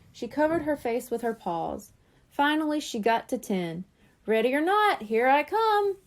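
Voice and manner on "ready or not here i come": announcing. Acted. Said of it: "she announced".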